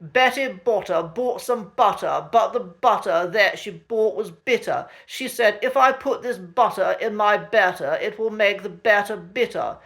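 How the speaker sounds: "Betty Botter" with every T crisp and clear, posh RP; crisp posh T's. Shown as a demonstration. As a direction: read "Betty Botter bought some butter" in heightened received pronunciation, crisp T's. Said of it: "we'll try that again".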